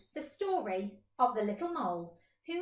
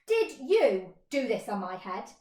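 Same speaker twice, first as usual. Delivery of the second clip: louder question; accusing question; 5 dB louder than usual. Acted. Mole questioning the goat, louder. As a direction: ask it pointedly.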